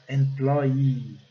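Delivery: "employee" with stress on both PLOY and EE; "employee" as "em-PLOY-EEE", ee held; two stressed syllables. Shown as a demonstration. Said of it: "quase que duas sílabas tônicas".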